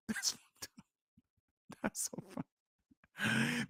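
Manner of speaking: breathless high laughter through the words; laughing hard. Real, not acted. Laughing at the old paper-key photos. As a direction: crack up until the voice squeaks away. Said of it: "The reason why I'm laughing".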